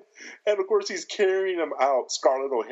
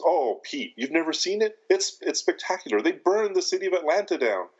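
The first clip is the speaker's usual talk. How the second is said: mock gleeful; 6 semitones higher than usual. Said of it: "He goes".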